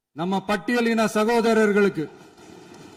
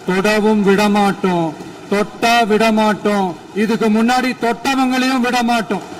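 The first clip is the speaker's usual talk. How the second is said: louder, forceful vow; raised voice; 5 dB louder than usual. Real, not acted. Vowing to the assembly on corruption, louder and forceful. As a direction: hammer each promise home, louder. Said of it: "நான் ஏன் கொஞ்சம் சவுண்டா பேசுறேன்".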